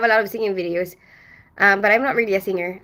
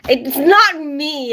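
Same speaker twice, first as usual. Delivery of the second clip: laughing denial; 6 semitones higher, 5 dB louder, much slower than usual. Real, not acted. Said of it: "denying it jokingly".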